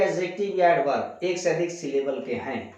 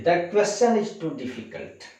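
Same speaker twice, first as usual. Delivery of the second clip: slow clear reading; 2 semitones higher, much slower than usual. Shown as a demonstration. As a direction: read the sentence very slowly. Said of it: "teacher reads fourth question". (धीमे और साफ़ पढ़ना)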